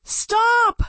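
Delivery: high, loud shriek. Acted. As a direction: shriek it at him in panic. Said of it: "Marcus shrieked at Sal".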